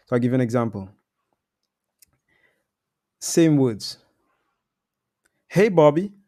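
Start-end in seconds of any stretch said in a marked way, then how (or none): 5.5-6.1 Hey Bobby rising up at the end; upward inflection. Shown as a demonstration. Demoing to Bobby for prospects, rising tune.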